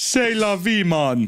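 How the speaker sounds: put-on Jamaican accent. Told they sound like they're trying a Jamaican accent, speaker does a fake Jamaican accent. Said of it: "There you go".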